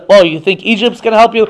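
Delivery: mildly mocking question; lightly acted taunt. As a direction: needle them about their hopes. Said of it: "sort of taunt them and say".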